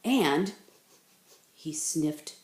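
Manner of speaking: low, snooty elder; haughty. Acted. Elder bunny sniffily rejecting Bunny Bear. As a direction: look down your nose at him. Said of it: "looked down his long nose".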